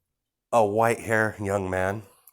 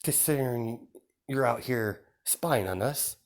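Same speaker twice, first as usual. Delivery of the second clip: lightly higher-pitched younger sister, polite and sly; a sly little sister delivering an invitation, pitched up; sister character; 6 semitones higher than usual. Acted. Sister voices invitation, high.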